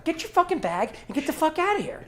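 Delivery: retold coach outburst. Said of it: "And he's like".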